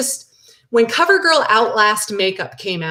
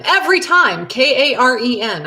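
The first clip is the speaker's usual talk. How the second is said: exasperated spelling; 5 semitones higher, 3 dB louder than usual. Real, not acted. Annoyed at her misspelled name.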